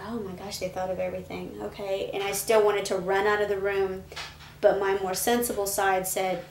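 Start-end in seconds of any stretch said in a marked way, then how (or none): 0.1-2.1 a hushed, relieved thought to herself; quiet inner thought. Retold or imitated. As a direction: murmur it as private relief. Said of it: "And I thought".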